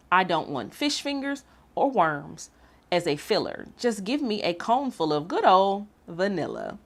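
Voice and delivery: lively, sing-song storybook reading; reading to children. A narrator's reading. Host reading picture book to young viewers, lively storytime voice. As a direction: read it like story time for little ones.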